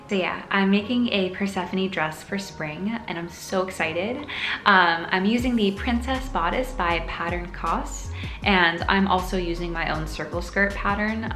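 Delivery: normal talking voice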